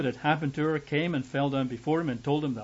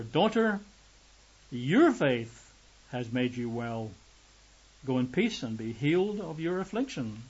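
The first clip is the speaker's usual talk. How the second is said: tender blessing. Acted. Jesus blesses the healed woman.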